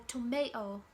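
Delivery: tomato with the second T left out; tomato with a glottal stop for the second T. Shown as a demonstration. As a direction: say tomato as "to-may-oh". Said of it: "some Brits use a glottal stop".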